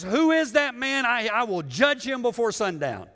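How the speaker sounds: high, loud indignant outburst as the king; a king demanding who did it; righteous indignation. Retold or imitated. David as king bursts out in indignant anger. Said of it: "rises up in righteous indignation and says".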